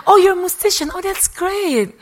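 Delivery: high, loud, exaggerated polite amazement; hammed-up fake surprise; feigned cool surprise. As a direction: pretend it is news to you, drawing out the end. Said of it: "super cool amongst these people".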